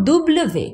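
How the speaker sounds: দুবলে ভে said as double-vé; French name for W. Shown as a demonstration. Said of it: "ভি কে জোরে ডব্লিউ".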